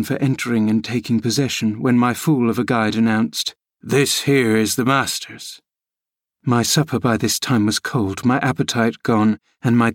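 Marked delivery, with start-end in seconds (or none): 3.8-5.6 put-on grumbling old servant Joseph. A narrator's reading. Old servant scolding the boy, grumbling rustic voice. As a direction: nag the boy about his lumpy porridge.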